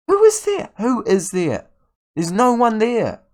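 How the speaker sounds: high, loud, incredulous shout; outraged yelling. Real, not acted. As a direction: demand to know where everyone went. Still yelling at empty defense.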